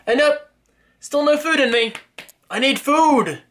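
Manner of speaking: high, whining plea for food; whiny hungry voice. Real, not acted. Vlogger whining to viewers about hunger, high whiny voice.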